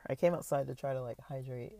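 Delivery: talking between sips of water; sipping water while talking; while sipping a drink. Real, not acted. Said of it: "sorry, I'm drinking water".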